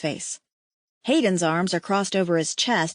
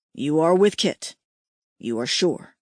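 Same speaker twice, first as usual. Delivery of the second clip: shocked alien mate; 5 semitones lower than usual. A narrator's reading. Hayden shocked by pregnancy news.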